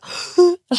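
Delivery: mock sobbing gasp; sudden breathy intake, acting overwhelmed; sharp gasp. Retelling meeting her helper, sharp gasp.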